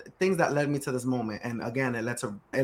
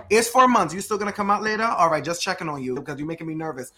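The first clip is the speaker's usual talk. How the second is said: mock nervous checking in; 2 semitones higher, 4 dB louder than usual. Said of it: "You can't sit there and knock on a lady's belly".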